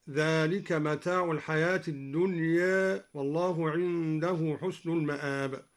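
recite, ending الدنيا halfway between a and e; taqlil on الدنيا. Shown as a demonstration. Teacher demonstrating al-Duri's reading of الدنيا, with taqlil. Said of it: "وقلل الدنيا من قوله تعالى".

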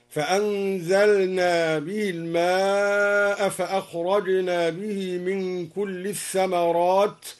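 measured recitation with أقل السحابا as "aqallas-sahaban"; ta merged into sin. Shown as a demonstration. Teacher recites al-Duri's reading, أقل السحابا merged without a t. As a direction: recite slowly, merging into a double s at السحابا. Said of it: "وأدغم التاء في الساء".

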